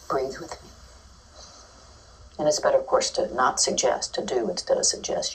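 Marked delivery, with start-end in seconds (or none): 0.1-0.7 soft calm invitation; calm breathing cue. Shown as a demonstration. Teacher breathing with an upset child, soft. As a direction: softly invite them to breathe. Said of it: "You breathe for them".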